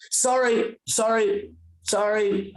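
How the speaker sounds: acted embarrassed sorry; sheepish apology. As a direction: apologize awkwardly, caught being ridiculous. Retold sheepish apology to the mother.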